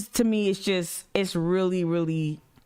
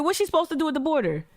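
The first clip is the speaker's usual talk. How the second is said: exasperated; 7 semitones higher, faster than usual. Real, not acted. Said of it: "repeated exasperated question".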